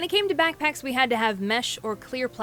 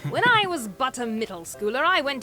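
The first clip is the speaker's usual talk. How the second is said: put-on a light, proper British accent. Cartoon narrator slipping into a light British accent. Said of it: "I don't know why I said that in a British accent".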